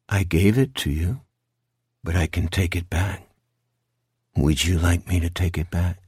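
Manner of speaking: low, menacing monster voice; low, controlled creature bargaining; sinister creature. Acted. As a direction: dangle the offer in a low voice.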